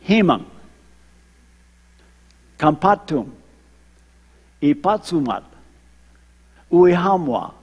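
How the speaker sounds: each number word said alone with a pause after it, as a demo; Aguaruna counting. Shown as a demonstration. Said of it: "I'm gonna show you how to count in the Aguaruna dialect".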